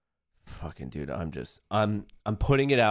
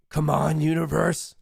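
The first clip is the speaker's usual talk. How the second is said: urgent plea; 5 semitones higher, 3 dB louder than usual. Real, not acted. Urging the trade louder.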